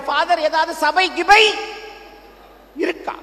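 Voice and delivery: a lightly hammed-up wife begging the Father; mimicking desperate woman. Mimics women running to the priest.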